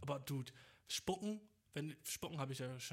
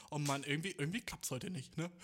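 self-deprecating whine; 4 dB louder than usual. Retold or imitated. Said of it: "so einen self-deprecating Witz".

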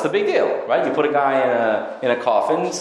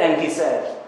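stammering king; 4 semitones higher than usual. Retold or imitated. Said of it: "The first one he was stammering".

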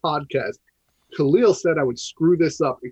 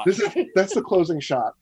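normal talking voice

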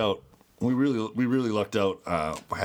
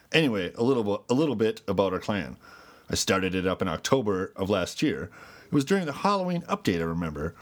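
newscaster voice. Pretend. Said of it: "Newscaster voice".

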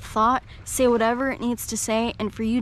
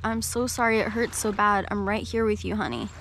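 soothing parent. Retold or imitated. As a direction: comfort a hurting child gently. Parent soothing a sad child.

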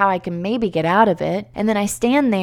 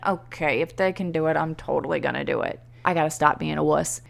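inner self-talk; 5 semitones lower, 6 dB quieter than usual. Retold or imitated. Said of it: "And I'm thinking".

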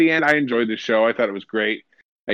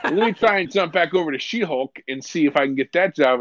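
laughing dismay; 6 semitones higher than usual. Retold or imitated. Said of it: "you're like".

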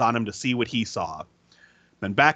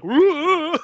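high, louder mutant woo; 12 semitones higher, 4 dB louder than usual. Retold or imitated. Friend imitates Biocop answering, high woo. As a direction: whoop like a happy monster. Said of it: "And Biocop's like".

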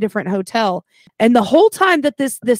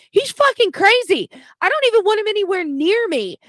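much higher, shrill-sounding retold woman; retelling the guest shouting from her door, pitched way up; imitating a panicked woman; 11 semitones higher than usual. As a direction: voice the scared guest up high. Retold frightened woman's outburst.

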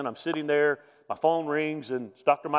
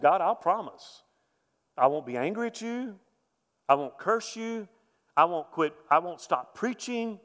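earnest vow; 4 semitones higher than usual. Retold or imitated. Vow prayed to God.

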